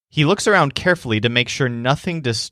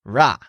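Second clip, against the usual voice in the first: pathetic noise. Acted. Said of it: "produces a pathetic noise".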